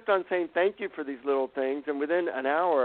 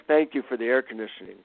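sincere thanks; 2 semitones lower, faster than usual. Retold or imitated. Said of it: "really, like, sincerely".

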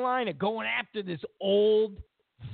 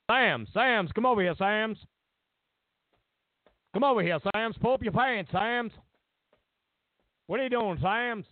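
lightly voiced principal calling a student over; Joe Clark voice; 3 semitones higher than usual. Comic Joe Clark impression calling Sams over, mildly raised. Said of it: "it was, uh, Morgan Freeman. He played, uh, Joe Clark".

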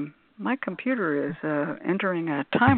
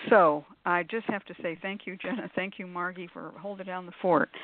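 winded, catching breath between words; 4 dB quieter than usual. Real, not acted. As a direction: still breathing hard after running. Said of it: "I am still breathing hard".

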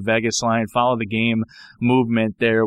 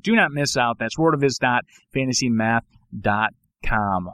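ad read. Acted. Sponsor ad read.

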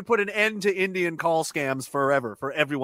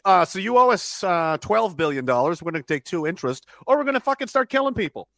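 pretend threat; 4 semitones higher than usual. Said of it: "I would send the United States Marines there and be like".

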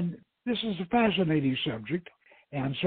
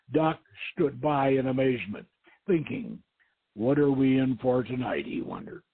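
steady storyteller reading a novel aloud; story narration. A narrator's reading. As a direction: read the chapter like an audiobook. Reads his novel aloud.

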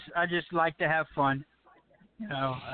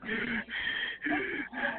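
heavy gasping breath; 6 semitones higher, 7 dB quieter than usual. Retold or imitated. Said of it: "people would hear me breathing heavy".

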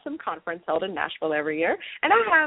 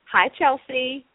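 giddy anticipation; 4 semitones higher, 3 dB louder, slower than usual. Real, not acted. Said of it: "forgive my giddiness and my giggles".

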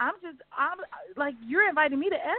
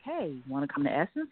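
low, softer, very casual; calm offhand invite; 10 semitones lower, 5 dB quieter than usual. Retold or imitated. Friend inviting her to Essence, low and offhand. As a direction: ask it as if it's nothing. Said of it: "she was so calm about it".

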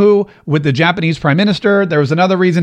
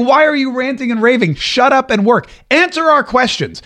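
mocking reporters; 5 semitones higher than usual. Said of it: "now they're saying".

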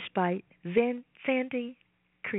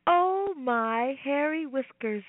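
slow, surprised otter exclaiming; lightly voiced fussy otter; squeaky otter voice; slower than usual. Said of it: "said the otter".

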